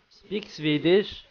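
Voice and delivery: put-on slow, questioning Swedish accent; mock Swedish accent. Doubting a player's claimed nationality, mock Swedish accent. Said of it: "you would talk like this".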